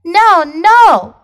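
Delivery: high, loud little pigs. Acted. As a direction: squeal no like a little pig. Two pigs refusing.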